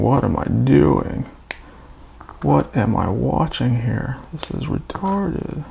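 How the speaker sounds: slow, disbelieving, rising to high; bored viewer voice. Retold or imitated. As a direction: drag it out like a fed-up viewer. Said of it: "you're probably thinking".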